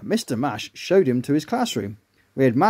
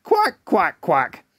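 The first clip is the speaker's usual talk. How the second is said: duck quacking; much slower than usual. Acted. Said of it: "jumped in and started swimming".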